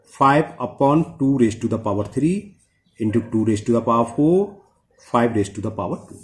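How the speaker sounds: slow, even dictation of each term. Shown as a demonstration. Teacher dictating to students, slow and even. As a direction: spell it out slowly so students can write it down.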